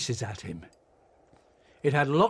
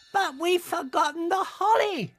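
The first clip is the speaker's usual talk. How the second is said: high, urgent little mouse; sudden realisation, cried out. A narrator's reading. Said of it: "cried Little Mouse".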